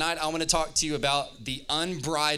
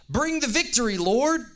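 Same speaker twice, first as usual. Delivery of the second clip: much higher, louder cry of praise; crowd shout; 12 semitones higher, 6 dB louder than usual. Acted. Preacher shouting as the crowd hailing Jesus.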